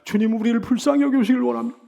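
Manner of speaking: imitating a captive's prayer; anguished plea. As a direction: beg God for pity as one who suffers. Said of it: "얼마나 괴롭고 고통스러운지 말이죠".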